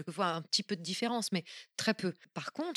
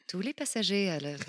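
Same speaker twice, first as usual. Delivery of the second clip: airport announcement. Shown as a demonstration. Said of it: "des voix d'aéroport".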